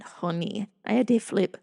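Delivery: lightly imitated foreign accent; a hint of husband's accented English. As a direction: mimic his accent on a Southern phrase. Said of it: "with that accent".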